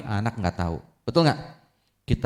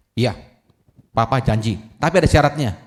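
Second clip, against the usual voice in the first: louder, firm conditions; stern father; 5 dB louder than usual. Acted. Father firmly setting conditions for his son, loud and stern. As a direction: lay down the law.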